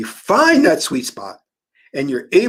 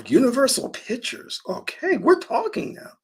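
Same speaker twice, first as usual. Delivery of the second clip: excited surprise; 8 semitones higher, 5 dB quieter than usual. Retold or imitated. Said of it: "I said".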